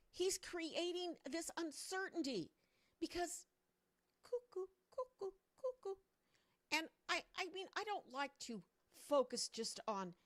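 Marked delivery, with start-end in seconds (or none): 4.2-6.0 mocking cuckoo. Mocking Trump as crazy.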